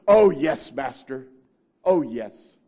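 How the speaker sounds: loud, fervent assent; eager yes. Retold or imitated. Preacher voicing Martha eagerly answering Jesus, fervent. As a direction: gush your agreement.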